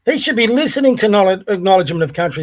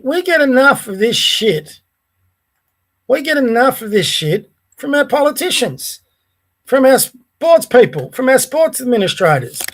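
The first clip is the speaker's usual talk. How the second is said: indignant, higher-pitched ranting; angry rant; 3 semitones higher than usual. Real, not acted. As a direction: vent real exasperation, hammering each complaint. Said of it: "I've been this angry".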